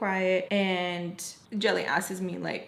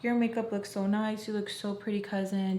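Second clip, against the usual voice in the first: really sweet. Retold or imitated. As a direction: imitate a sweet, admiring cousin. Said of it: "being really, really sweet to her".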